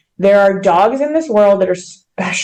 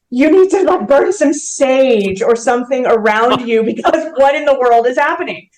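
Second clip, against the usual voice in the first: incredulous friend; 4 semitones higher than usual. Retold or imitated. Friends react to her string of disasters, incredulous. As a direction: voice a friend's mock exasperation, pitched up.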